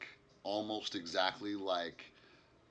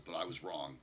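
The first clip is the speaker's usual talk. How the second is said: low, softly spoken admission of defeat; 3 semitones lower, 5 dB quieter than usual. Acted. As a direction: play it quietly beaten, slightly lower. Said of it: "very defeated".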